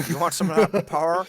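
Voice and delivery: slow cartoon Texan salesman voice; Texan drawl. Pitching the podcast to listeners in a Texan drawl. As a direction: drawl the offer like Hank. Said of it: "King of the Hill".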